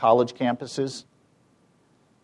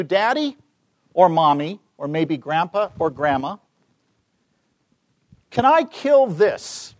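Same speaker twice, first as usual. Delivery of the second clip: a small son tugging at a parent, pitched up; child asking; 2 semitones higher than usual. Retold or imitated. Five-year-old son asks his parent at the sink, innocent child voice. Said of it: "and he says to you".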